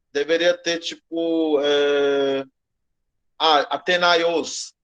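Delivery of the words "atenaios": "Atenaios" drawn out slowly; two-accent example. Shown as a demonstration. Teacher shows a word with two accents, slow demonstration. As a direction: show "Atenaios" slowly, syllable by syllable. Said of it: "Você tá vendo dois acentos aqui".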